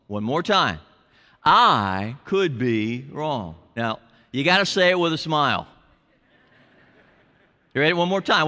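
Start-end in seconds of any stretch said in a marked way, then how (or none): 1.4-3.6 slow recital. Shown as a demonstration. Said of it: "Let's all say that together".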